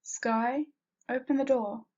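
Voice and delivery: calling loudly through a door; yelling. Acted. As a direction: raise your voice to call her. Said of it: "I heard Sarah yell".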